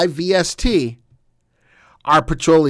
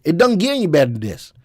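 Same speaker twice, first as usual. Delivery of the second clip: quicker put-on Southern accent; faster than usual. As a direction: toss it off in a playful Southern accent. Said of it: "That's my Southern accent".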